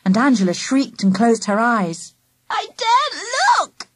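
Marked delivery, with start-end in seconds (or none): 2.5-3.9 high, scared groan. A narrator's reading. Angela, eyes closed, groans in fear of the bulls. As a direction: moan it with eyes shut tight. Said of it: "she groaned".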